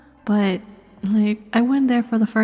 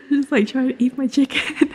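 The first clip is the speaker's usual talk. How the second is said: laughing; 3 semitones higher, 5 dB louder than usual. Real, not acted. Laughing while telling story.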